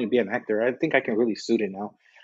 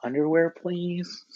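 mock-sweet, higher pleading; nice request; 3 semitones higher, 5 dB quieter, slower than usual. Showing how to ask nicely, sweet polite voice. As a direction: ask nicely, slowing on the last words. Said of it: "be nice and like".

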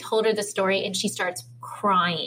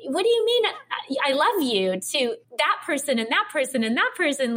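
quoting her own disbelief to her partner; baffled; 3 semitones higher than usual. Retold or imitated. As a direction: sound truly thrown by it. Retold baffled question to partner.

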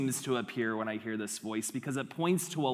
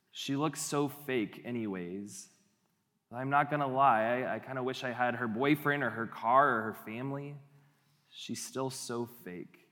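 envious inner voice. Acted. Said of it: "could sound a little bit like this".

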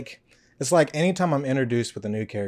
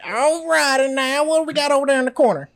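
character voice; 11 semitones higher, 6 dB louder than usual. Pretend. Hosts in character voice.

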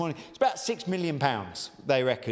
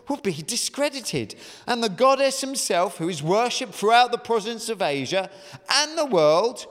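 posh voice; 4 semitones higher, 5 dB louder than usual. Acted. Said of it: "said in a, uh, posh voice, probably".

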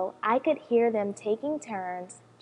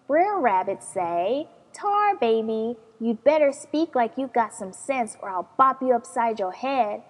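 storytelling voice; 3 dB louder than usual. Acted. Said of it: "In my best storytelling voice".

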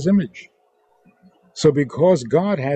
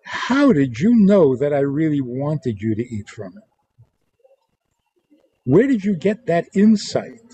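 rising, pleased and proud; delighted. Shown as a demonstration. God delighted Adam ate the fruit, excited. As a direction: sound thrilled at the insight.

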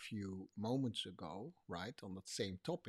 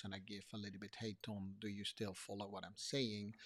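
softer, with room to answer; leaving pauses; 2 semitones lower, 7 dB quieter than usual. Shown as a demonstration. Checking whether Tom still follows, softly. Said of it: "I give a little bit more pause".

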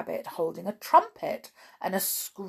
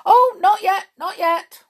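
high, loud, urgent protest; hasty interruption; 13 semitones higher, 12 dB louder than usual. A narrator's reading. Rabbit hastily cutting in on the king, high urgent protest. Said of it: "the rabbit hastily interrupted".

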